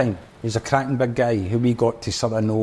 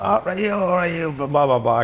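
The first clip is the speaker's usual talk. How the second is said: Liam impression; 7 semitones higher than usual. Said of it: "he's like".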